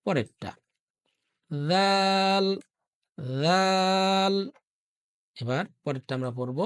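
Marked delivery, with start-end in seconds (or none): 1.7-4.3 দাল drawn out with a soft th-like d, tongue out; soft dhal. Shown as a demonstration. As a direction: say দাল softly like সা. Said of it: "এই যে দাল, এটা আমরা একটু সফট করে পড়ব".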